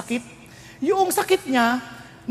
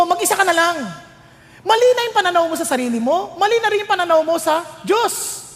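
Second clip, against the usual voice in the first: firm God voice; 6 semitones higher than usual. Acted. God confronting Elijah.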